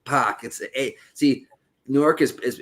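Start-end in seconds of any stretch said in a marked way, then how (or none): 0.0-0.4 "Park" said as "pahk", no R, long open ah; Boston "Park". Shown as a demonstration. Showing friends how Bostonians say "Park" without R. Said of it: "It's more like an ah".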